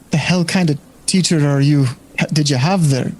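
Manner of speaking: put-on bar patron in an accidental light Scottish accent; slipped Scottish accent. Game master voicing the bar patron, wrong Scottish accent slipping in. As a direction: let a Scottish lilt creep into the patron's line by mistake. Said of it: "Oh, wrong accent".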